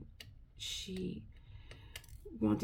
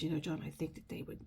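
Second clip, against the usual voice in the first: soft gentle coaxing; 8 dB quieter than usual. Retold or imitated. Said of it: "I said".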